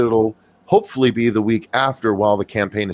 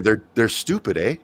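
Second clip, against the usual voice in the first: mock Canadian accent. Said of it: "let me say it in Canadian".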